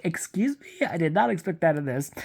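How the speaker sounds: high, rising shocked excuse me; incredulous. Retold or imitated. Reader reacting to the book, high and scandalised. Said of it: "and I was like".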